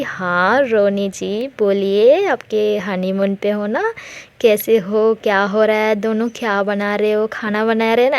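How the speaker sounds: playful mock-flirty ribbing; lightly voiced teasing banter. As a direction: tease a friend about her honeymoon. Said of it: "बहुत मजाक करती है".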